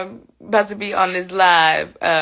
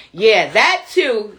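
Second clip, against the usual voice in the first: "Yeah, that too" stretched out slowly; slow agreement; 3 dB louder, much slower than usual. Real, not acted. Streamer agreeing with Joe, drawn out slowly.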